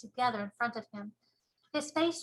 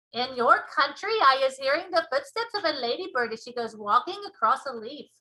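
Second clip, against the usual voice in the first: BFG giant voice; 3 semitones higher, 7 dB louder than usual. Acted. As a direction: show off the ears proudly. BFG explaining.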